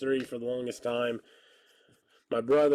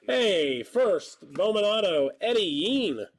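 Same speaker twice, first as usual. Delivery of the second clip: raised, louder announcing of the pull; excited card call; 7 semitones higher, 3 dB louder, slower than usual. Real, not acted. Streamer announcing a pulled card to viewers, excited. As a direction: call out the hit with a burst of energy.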